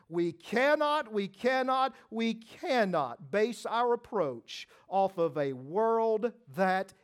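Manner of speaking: emphatic, slow preaching voice. Acted. Preacher pressing the congregation to trust Scripture, emphatic. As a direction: press it home from the pulpit.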